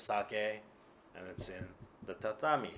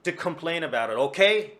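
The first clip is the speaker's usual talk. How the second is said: put-on drunken insistence; 2 semitones higher, 8 dB louder than usual. Kuma insists on complaining.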